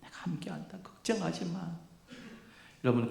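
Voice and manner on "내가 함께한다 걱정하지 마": soft, soothing voice of God; God's reassurance. Acted. God comforting the sufferer with a promise, soft and tender. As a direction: reassure them softly, as God would. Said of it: "맞추신다는 말씀은".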